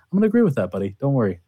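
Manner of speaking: high, teasing mock agreement. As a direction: needle your buddy playfully. Teasing co-host.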